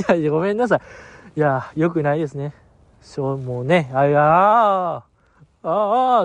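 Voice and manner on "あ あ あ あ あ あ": long wavering "aah", swelling then breaking off; drawn-out dazed "ah". Retold or imitated. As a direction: let out a long, spaced-out "aaah". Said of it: "あってなりました". (ぼうっとした長い「あー」)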